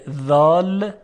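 ذال said with the tongue tip at the upper teeth; letter dhal. Shown as a demonstration. Teacher introducing the Arabic letter, clearly drawn-out ذال. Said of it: "این سه حرف عبارتند از".

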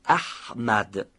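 احمد with a constricted mid-throat ح; constricted throaty ح. Shown as a demonstration. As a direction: squeeze the ح of احمد from the middle of the throat.

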